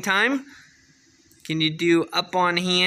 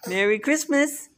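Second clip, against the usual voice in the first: voicing the baby; 9 semitones higher than usual. Shown as a demonstration. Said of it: "Can you say Merry Christmas".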